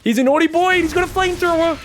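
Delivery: high, loud, thrilled cry over the flamethrower play; excited. Real, not acted. Caster yelling to viewers about Clem's flamethrower, excited. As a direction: pitch jumps way up as the harass lands.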